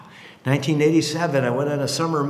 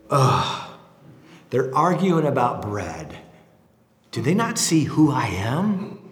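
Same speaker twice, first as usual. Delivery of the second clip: exasperated sigh; 4 semitones lower, slower than usual. Retold or imitated. Jesus watching disciples argue.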